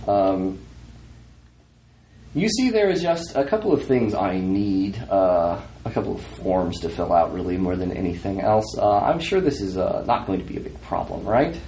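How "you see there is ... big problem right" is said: put-on lightly done northern accent, hesitant and businesslike. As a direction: politely explain some paperwork in a slight northern accent. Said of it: "somebody with a northern accent".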